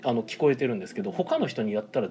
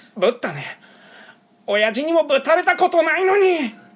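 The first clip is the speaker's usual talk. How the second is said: very high, very loud, shrill, drawn-out angry anime-hero yell; 8 dB louder than usual. The speaker performs a practiced anime line, imitating an angry anime hero. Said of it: "このモノマネは僕ちゃんとあの本編見て練習しました".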